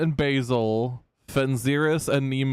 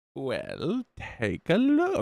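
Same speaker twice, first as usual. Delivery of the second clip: slow, swooping, throat-straining shopkeeper voice; 3 dB quieter than usual. Voicing a shopkeeper greeting the players: throat-straining shopkeeper voice. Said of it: "I can't actually do that voice".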